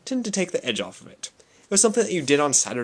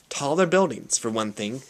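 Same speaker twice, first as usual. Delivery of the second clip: desperate. Acted. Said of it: "said Sister Mary desperately".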